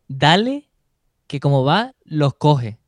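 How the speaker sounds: retold race shout. Morcillo yelling at the racer to go catch them, loud. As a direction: shout him on up the climb.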